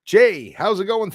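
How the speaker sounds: high, loud, lively hail; loud greeting. Real, not acted. Streamer hailing a returning viewer in live chat, loudly. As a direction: call out a big, high hello. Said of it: "talking too loud, my big mouth".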